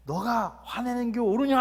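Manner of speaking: booming, echoing rebuke from the sky; God's echoing angry rebuke. Shown as a demonstration. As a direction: thunder it down from heaven with an echo. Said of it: "화난 목소리를 할 수 있겠죠".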